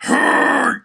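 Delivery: very high, loud yelped hey; high squeaky hey. Shown as a demonstration. Showing the Pee Wee starting point, high squeaky yelp. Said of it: "you know, like".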